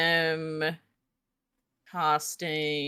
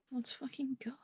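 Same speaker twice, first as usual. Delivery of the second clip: contained excitement; 7 semitones higher, 14 dB quieter than usual. Real, not acted. Hyped whisper after advantage.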